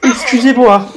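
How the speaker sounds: apology through a yawn. Real, not acted. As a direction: yawn while saying it. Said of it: "Je baille aux corneilles".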